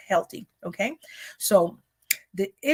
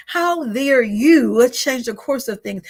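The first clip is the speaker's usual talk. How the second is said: louder, slower, drawn-out indignation; indignant how dare you; 3 semitones higher, 5 dB louder, slower than usual. Retold or imitated. Preacher voicing the enemy, loud and slow indignation.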